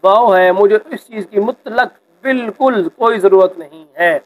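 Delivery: leaning hard on مطلق and بالکل in مجھے اس چیز کی مطلق بالکل کوئی ضرورت نہیں ہے; firm, emphatic refusal with stress on بالکل; emphatic insistence. Shown as a demonstration. Teacher demonstrating emphasis to the class, firm emphatic refusal. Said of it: "زور دیا جا رہا ہے".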